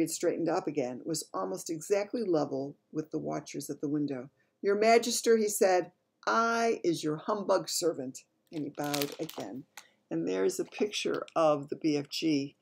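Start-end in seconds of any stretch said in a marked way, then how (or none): 4.6-8.2 BFG voice. Acted. Giant BFG addresses the Queen.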